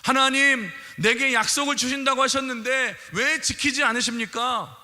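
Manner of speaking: acted complaint to God; complaining Abraham. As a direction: grumble to God like a sulking child. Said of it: "원망하고 불평하기 시작하지 않습니까".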